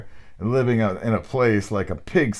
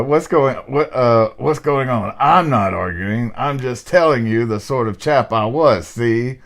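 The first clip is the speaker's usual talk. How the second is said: a louder, hammed-up big man; hammed-up burly man; 3 semitones higher, 4 dB louder than usual. Reader hams up the ghost to his friend, hammed-up burly man. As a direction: puff up the chest and lay it on thick. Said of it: "You could kind of be a voice actor".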